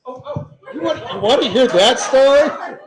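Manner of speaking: high, laughing, delighted to be asked. Real, not acted. Amused at being asked for story.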